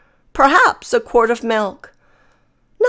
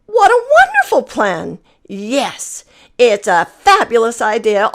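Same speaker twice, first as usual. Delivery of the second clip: excited glamorous hen. Acted. Hens plan to fancy up their feathers, gushing and excited. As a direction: gush like a vain hen getting dressed up.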